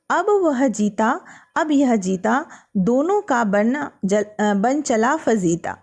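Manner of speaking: slow, measured verse reading; poem recitation. Acted. Teacher reading a poem aloud to students, slow recital. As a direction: recite each line slowly for the class.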